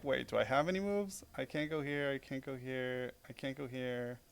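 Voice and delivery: fading to a hushed, slowing murmur; muttered panic. Retold or imitated. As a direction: mutter it to yourself, dropping away. Panicked inner monologue over the board.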